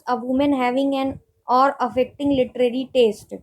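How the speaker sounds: reads the question word by word, very slowly; slow dictation reading. Acted. Teacher reading a quiz question to students, slow dictation pace. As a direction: spell out each option slowly for note-taking.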